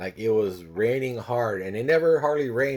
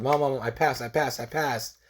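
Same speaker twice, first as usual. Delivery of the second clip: higher-pitched, eager repeated announcement; retold excitement; 4 semitones higher than usual. Son telling mom after work, acted excitement. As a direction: re-enact bursting to tell good news. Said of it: "I was so excited".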